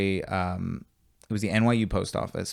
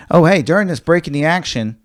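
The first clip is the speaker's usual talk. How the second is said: announcer voice; 6 semitones higher, 10 dB louder than usual. Real, not acted. Host announcing a break.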